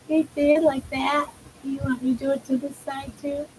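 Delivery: high-pitched, gentle pet talk; sweet, lilting questions to an animal; cooing to a pet. Real, not acted. Fussing over the pet's ears.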